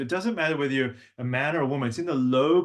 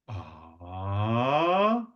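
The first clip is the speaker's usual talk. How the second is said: breathy ah; 3 semitones lower than usual. Shown as a demonstration. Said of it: "very breathy part of our voice".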